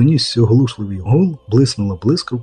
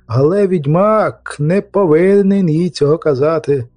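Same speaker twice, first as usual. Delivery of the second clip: anxious insistence; 4 semitones higher than usual. Acted. Anxious insistence on keeping secret.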